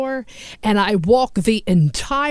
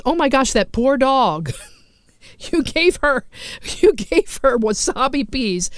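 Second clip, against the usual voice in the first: shocked friend; 4 semitones higher than usual. Retold or imitated. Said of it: "my friend's first response was".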